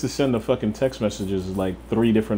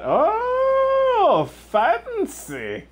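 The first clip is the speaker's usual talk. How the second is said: mock posh; 4 dB louder, much slower than usual. Mock posh reaction to jacket.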